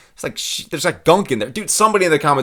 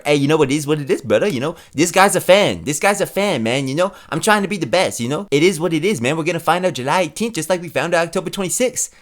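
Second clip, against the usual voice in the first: Max Holloway impression; 2 semitones higher than usual. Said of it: "Max Holloway up next year".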